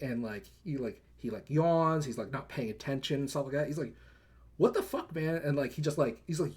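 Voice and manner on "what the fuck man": high, exasperated what the fuck; annoyed outburst. Retold or imitated. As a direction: snap at him, fed up. Annoyed veteran yells at therapist.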